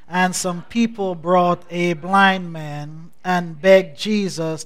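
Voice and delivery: measured, declamatory Bible reading; scripture reading. Acted. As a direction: read scripture aloud for a congregation to follow. Leads congregation reading scripture in concert.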